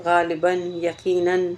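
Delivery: یقیناً and غالباً sounded with a clear final n; یقیناً ending in an audible n; tanween demo. Shown as a demonstration. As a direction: press the n sound at the end of غالباً. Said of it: "بغیر نون کے لکھے ہوئے".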